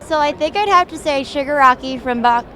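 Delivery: talking around fake fangs; slightly lisped, mouth full of fangs; wearing vampire fangs. Real, not acted. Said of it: "It's a little hard to talk with the fangs".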